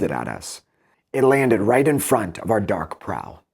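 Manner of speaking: measured, even reading of epic verse; poem reading. Acted. Teacher reading epic verse to students, measured and even. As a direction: read the Odyssey lines aloud to the class.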